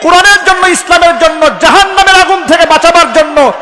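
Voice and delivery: loud, high fiery sermon; preaching at full force. Real, not acted. Preacher defending loud scholars to the crowd, fiery and loud.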